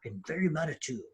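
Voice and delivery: understated mocking of an outraged protester; mild mock quote. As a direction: toss off the quote dryly. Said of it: "What's being applauded is".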